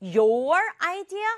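high, drawn-out challenge; accusing question. Acted. Child demanding an answer from Mom, accusing. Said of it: "따지면서".

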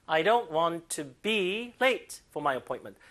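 slow, stressing move; slow model reading. Shown as a demonstration. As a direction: read it out slowly for students. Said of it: "강세 주세요".

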